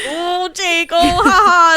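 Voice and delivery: hammed-up "ha, ha", pitched high; put-on polite laugh. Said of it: "you never know what's really going on".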